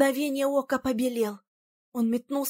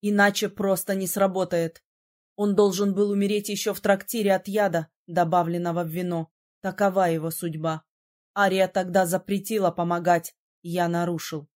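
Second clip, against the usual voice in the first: lower, calm grave voice; lowered male voice; 5 semitones lower than usual. A narrator's reading. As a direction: explain his fate soberly. (низким спокойным голосом)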